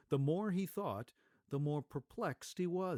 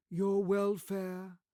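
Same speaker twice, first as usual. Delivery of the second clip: louder, slow, solemn spirit; 7 semitones higher, 7 dB louder, slower than usual. Acted. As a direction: pronounce it like fate. Ghost of Christmas Past.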